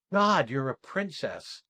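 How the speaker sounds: slow, deliberate statement with no apology; unapologetic. Retold or imitated. Charlotte to Laura in the exercise, unapologetic. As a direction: say it slowly and own it. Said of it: "with no apology".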